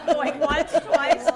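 loud, high auction call; auctioneer. Pretend. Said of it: "do it like an auctioneer".

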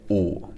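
"Oo" with a bit of frogginess, lips not fully rounded; froggy pinyin u. Shown as a demonstration. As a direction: stop rounding the lips at the end of "Oo". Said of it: "add a bit of frogginess to it".

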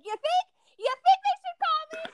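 high-pitched mock disbelief; sarcastic incredulity. Patient answering receptionist about calling her, sarcastic disbelief. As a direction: throw it back high, as if it's obvious.

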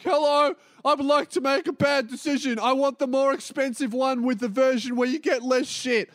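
mock polite request. Mock-formal order at counter.

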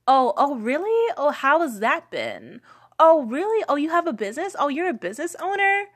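exaggerated "oh, really?" gushing; mocking people surprised she owns a business; mock surprise. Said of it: "amount of times that I was told".

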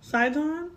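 Seitan said "SIGH-tahn"; corrected pronunciation. Shown as a demonstration. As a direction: repeat Seitan as "sigh-tahn", rising as if checking. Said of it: "or a seitan".

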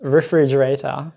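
refrigerator slowly in a Japanese accent; tapped r and open final "ta" in refrigerator, Japanese-accented. Shown as a demonstration. Reading a listener's favorite word aloud, Japanese accent. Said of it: "mine is not like authentic American pronunciation".

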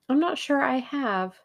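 darkly meant, but pitched high; ominous retort with lifted pitch. A narrator's reading. Tuppence answering Tommy about being blackmailers, dark. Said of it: "said Tuppence darkly".

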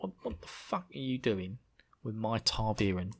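cockney tough guy roaring at the Red Ajah; Michael Caine shouting. Retold or imitated. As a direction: bellow it like a hard man defending his boy. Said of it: "making sure everyone in the Wheel of Time book is suddenly Michael Caine".

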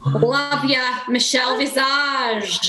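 slow, wobbly attempt at Scottish; Lawrence Chaney's Scottish accent. Shown as a demonstration. Contestant trying Lawrence to the group, loose Scottish accent. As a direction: draw out a not-quite-Scottish accent. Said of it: "not very, um, Scottish".

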